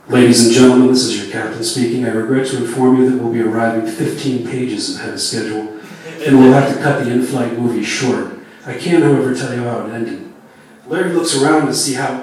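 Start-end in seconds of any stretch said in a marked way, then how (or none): 0.1-10.3 pilot speaking over the cabin speaker; captain's PA announcement. Acted. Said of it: "a voice crackles on the speaker".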